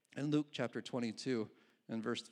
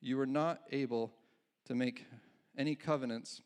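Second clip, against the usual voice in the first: halting misreading. Real, not acted. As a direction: stumble through the verse haltingly. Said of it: "oh, sorry".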